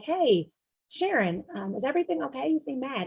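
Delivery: lightly acted concern for a coworker; gentle concern. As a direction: ask carefully, as if checking on a friend. Acts out checking on upset coworker.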